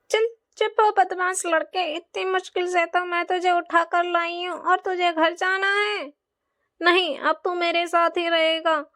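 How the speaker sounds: a hint of a nasty kidnapper scolding; a lightly voiced wicked beggar woman threatening a child; harsh beggar woman.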